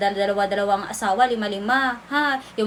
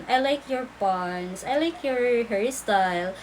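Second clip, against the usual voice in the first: sweet compliment; slower than usual. Retold or imitated. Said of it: "pag makita ko".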